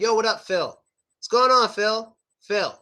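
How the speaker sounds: "Phil" with an O or W ending, in a casual greeting; native "Phil". Shown as a demonstration. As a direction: greet "Phil" without pronouncing the L. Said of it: "Like that".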